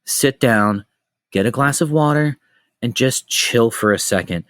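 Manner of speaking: slow, spaced-out soothing instructions; imitated calming mom; retold reassuring mother. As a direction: talk someone down gently, pausing between each step. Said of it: "my mother came over".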